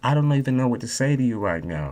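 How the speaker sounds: hushed, very soft speaking voice. Showing a couple how to speak even when upset: very soft speaking voice. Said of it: "very soft like this".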